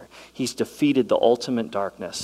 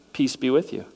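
calm greeting; 2 semitones higher than usual. Pretend. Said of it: "Jesus goes".

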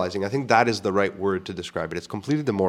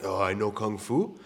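movie quote; 5 dB quieter, slower than usual. Retold or imitated. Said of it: "remember in The Matrix".

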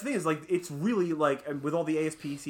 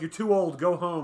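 Fight Club quote; 3 semitones higher, 7 dB louder than usual. Retold or imitated. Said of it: "like that scene in Fight Club".

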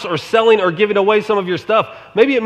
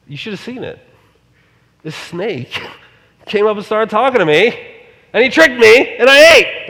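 Eve excitedly blaming snake; 3 semitones higher, 4 dB louder than usual. Retold or imitated. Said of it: "And Eve says".

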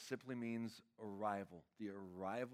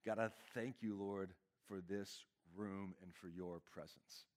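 heartfelt prayer. Real, not acted. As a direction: pray aloud for the congregation, pausing between phrases. Leads the congregation in prayer.

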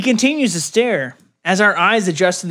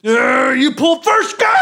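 cowboy drawl; 5 semitones higher than usual. Acted. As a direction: call out a showdown, cowboy style. Cowboy gunslinger challenge.

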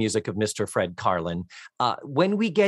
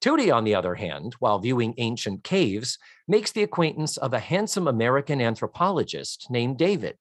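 synopsis read-out. Acted. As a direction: read it like a summary off the page. Reads the Wikipedia synopsis aloud.

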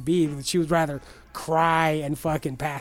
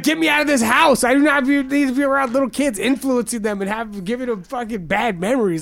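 high, loud mock plea that eases toward the end; exasperated outburst; 7 semitones higher, 5 dB louder than usual. To his family about bad influence, loud exasperated outburst. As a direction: shout it like you want out of the house. Telling family he must leave.

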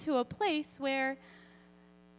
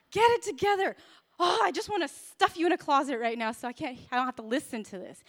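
exasperated outburst; faster than usual. Retold or imitated. Mom voicing her gut reaction, mock exasperated outburst. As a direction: play up a parent at wit's end. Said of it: "this is my gut reaction".

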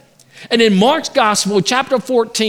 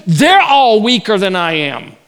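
arrogant boast; 5 dB louder than usual. Acted. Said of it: "He said".

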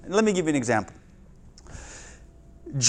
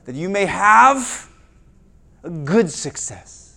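scripture reading. Acted. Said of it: "let me give you one verse".

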